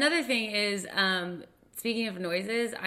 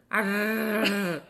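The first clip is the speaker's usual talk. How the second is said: failed rolled R. Shown as a demonstration. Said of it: "That's me rolling my R's".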